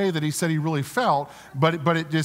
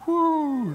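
relaxed sigh; 11 semitones higher than usual. Shown as a demonstration. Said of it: "Everybody do that".

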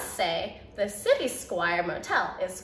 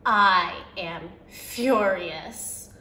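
furious; 3 semitones lower, much slower than usual. Acted. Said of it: "Mad is too plain for how I feel".

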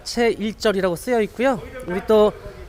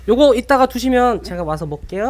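laughing. Real, not acted. Laughing while joking about leftovers.

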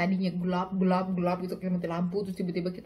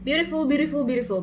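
fangirl squealing; 6 semitones higher, 5 dB louder, much faster than usual. Real, not acted. Gushing over a singer.

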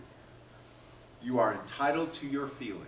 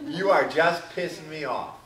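mock irritation; 6 dB louder than usual. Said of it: "You're smiling".

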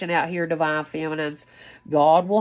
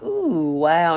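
delighted. Retold or imitated. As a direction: gasp with joy at the spaceships. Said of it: "you're just laughing and like".

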